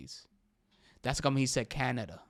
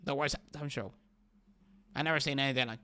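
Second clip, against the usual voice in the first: mocking the president; faster than usual. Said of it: "Well, he said".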